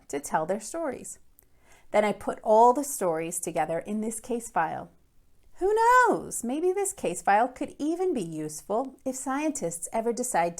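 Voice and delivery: put-on lively first-person read-aloud of a kid's case file; story narration. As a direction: read it like a curious schoolboy telling his story. Librarian reads novel aloud.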